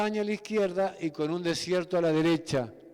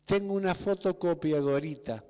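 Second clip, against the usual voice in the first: belittling diminutive. Retold or imitated. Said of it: "¿Viste que hablamos así".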